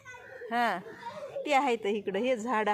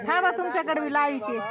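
raised voice; 5 semitones higher, 4 dB louder than usual. Real, not acted. Turning camera to villager.

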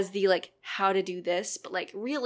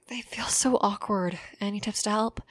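serious take. Shown as a demonstration. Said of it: "doing it seriously".

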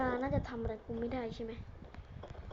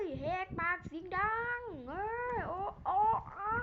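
crying wail; 4 semitones higher, 7 dB quieter than usual. Acted. Character dying in the game.

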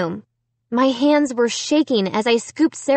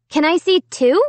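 calling out; 7 semitones higher, 4 dB louder than usual. A narrator's reading. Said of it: "I called".

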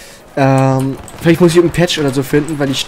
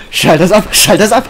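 panicked yelling; 5 semitones higher, 4 dB louder than usual. Pretend. Panicked plea to stop.

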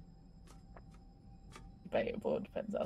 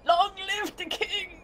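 dramatic movie line; 7 semitones higher, slower than usual. Acted. Acting Lion King scene.

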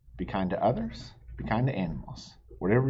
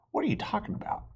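whisper; 10 semitones higher, 5 dB quieter, faster than usual. Acted. Friends argue in story.

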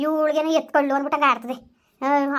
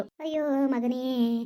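slow, sobbing keen over her lost son; drawn-out tearful wail; wailing lament; 3 dB quieter, slower than usual. Acted. Grandmother wails again over son.

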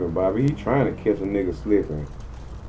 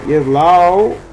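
raised, louder hype call; excited cheer; 6 semitones higher, 6 dB louder than usual. Real, not acted. Showing off the car to viewers, hyped cheer. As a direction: call it out pumped up.

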